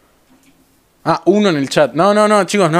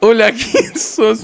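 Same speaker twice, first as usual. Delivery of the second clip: drawn-out, higher hello; slow rehearsed greeting; 4 semitones higher, much slower than usual. Pretend. Streamer rehearses meeting Farfa, slow and higher. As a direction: stretch out the practice greeting.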